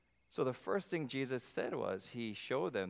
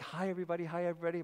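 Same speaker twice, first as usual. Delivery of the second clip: cheerful greeting; 4 semitones higher, much faster than usual. Retold or imitated. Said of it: "you're like".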